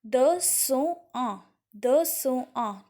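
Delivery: "the cent un" word by word, repeated for learners; French pronunciation demo. Shown as a demonstration. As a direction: model "the cent un" slowly for a class. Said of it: "you will speak like this".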